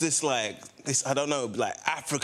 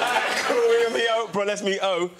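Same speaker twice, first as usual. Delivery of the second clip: acted-out giddy eagerness, higher; psyching yourself up, pitched up and louder; retold excited chatter; hyped-up excitement; 7 semitones higher, 4 dB louder than usual. Acts out excitement at meeting star.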